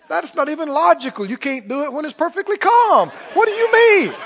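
mock protest rising to a high cry; lightly hammed-up frantic objection; desperate devil. Devil arguing with Peter about walking on water, mock desperate. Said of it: "hear the desperation in the devil's voice".

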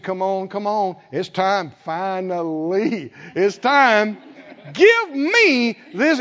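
put-on old Caleb getting excited; eager plea. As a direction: insist it's finally time. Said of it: "He said".

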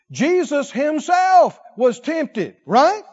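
fervent, slow preaching shout. Acted. Preacher lifting his voice to the congregation, fervent. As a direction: drive each phrase home to the church.

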